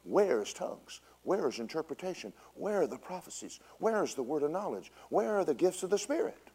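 soft, high questions put to God; retold prayer. Preacher retells asking God for his missing gifts, praying. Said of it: "And I prayed".

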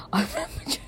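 breathy laughing whisper through the words; whispered giggle. Real, not acted. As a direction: giggle it out under your breath. Repeats it giggling under breath.

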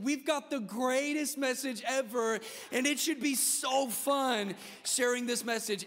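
slow, ringing, rising with joy; joyful preaching. Acted. Preacher celebrating the gospel to the church, joyful and ringing. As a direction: lift it up like good news.

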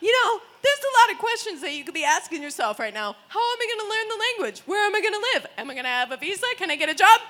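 mock lecture, questions building to a loud NO; exasperated scolding. Swedish guy scolds weed-asker online.

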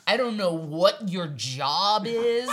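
indignant sister's tirade, retold with rising volume; screaming sister. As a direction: build to a loud mock dressing-down. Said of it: "and just screamed".

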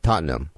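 Tottenham tried as "TAHT-num"; attempted British pronunciation. Shown as a demonstration. American host checking he says it right, Tottenham as "TAHT-num". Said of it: "Am I saying it right there?".

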